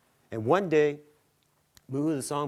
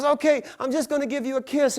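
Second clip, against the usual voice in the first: giant woman cooing; 14 semitones higher, 8 dB louder than usual. Acted. Giant woman offers kiss.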